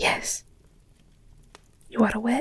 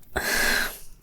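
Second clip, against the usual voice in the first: acted breathy sigh. Acted pause before confessing.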